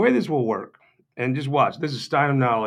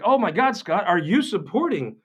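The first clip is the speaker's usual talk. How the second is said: whiny mock outrage; 7 semitones higher, 3 dB louder than usual. Mimicking Greg's online whining, high and loud. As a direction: parody a pearl-clutching friend. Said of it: "so Greg is like".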